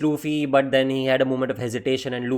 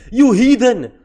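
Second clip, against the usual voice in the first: mock furious rant; 5 semitones higher than usual. Imitating Whitebeard yelling at Sengoku, furious. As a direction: chew out a useless admiral. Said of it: "he was like".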